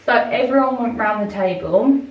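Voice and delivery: slightly out of breath. Real, not acted. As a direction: talk while catching your breath. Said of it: "I don't know why I'm so out of breath".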